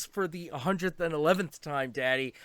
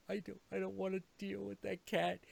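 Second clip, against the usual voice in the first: higher, rising alarm to a slow shout; spooked cat; 4 semitones higher, 5 dB louder than usual. Retold or imitated. Comet warning about Gomez, spooked. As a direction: build to a horrified cry. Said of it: "even Comet is like".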